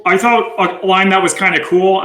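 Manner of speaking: ordinary talk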